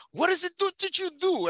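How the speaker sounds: put-on high, puzzled old-man voice; imitating old grandfather. Grandson recalls his grandfather's question, high and puzzled. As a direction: ask it like a bewildered grandfather. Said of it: "my ninety-five-year-old grandfather still asks me".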